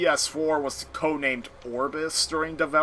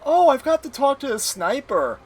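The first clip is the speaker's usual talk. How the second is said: nerdy high voice; 12 semitones higher, 7 dB louder than usual. Retold or imitated. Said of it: "he's like".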